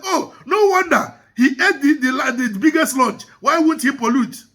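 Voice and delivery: half-shouted comic exclamation; retold shouting. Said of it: "another person started shouting".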